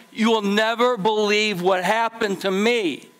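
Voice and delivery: giddy servant who can't believe his luck; excited news. Retold or imitated. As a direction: burst out with unbelievable good news.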